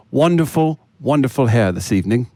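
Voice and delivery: put-on formal British accent; courteous, comic British accent. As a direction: make a mock speech in British English. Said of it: "saddling me with the British accent".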